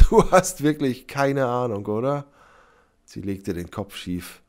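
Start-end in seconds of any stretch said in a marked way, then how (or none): 0.0-2.2 higher, louder, scornful amusement; laughing out loud. A narrator's reading. Sybil mocks clueless Sepp, laughing. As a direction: burst out at his ignorance. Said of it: "Sybil lachte wieder laut auf".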